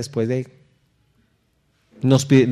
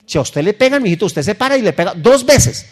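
a hint of a tough father, louder; parent's advice; 7 semitones higher, 6 dB louder than usual. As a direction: mimic the dad telling his boy to hit back. (leve imitación del papá que aconseja pegar)

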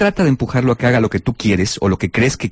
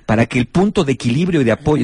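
sarcastic thanks. Retold or imitated. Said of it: "el sarcasmo tampoco ayuda".

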